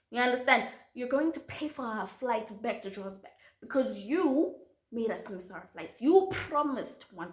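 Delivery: demanding warning; stern scolding. Retold or imitated. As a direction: lay down the law. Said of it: "So I said".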